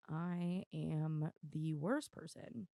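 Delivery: normal talking voice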